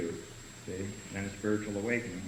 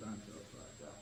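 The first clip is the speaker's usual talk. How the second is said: much lower and much softer, a self-pitying mumble; mopey mumble; 8 semitones lower, 19 dB quieter than usual. Retold or imitated. Newcomer moaning to the AA group, low mopey mumble. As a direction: mumble it like you've hit bottom. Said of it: "doing one of these".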